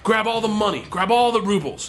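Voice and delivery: high, insistent imitated orders; urgent command. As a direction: call out orders mid-heist. Imitates Igor ordering a robbery.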